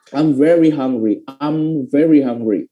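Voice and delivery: "I'm" said as one syllable "am", slow demo; slow model sentence with "I'm" as "am"; contracted I'm. Shown as a demonstration. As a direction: say "I'm very hungry" slowly, starting with a plain "am". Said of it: "bacanya lebih cepat tuh pakai am".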